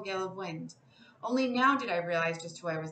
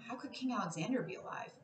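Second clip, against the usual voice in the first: whispered; 6 dB quieter than usual. A narrator's reading. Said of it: "I whispered".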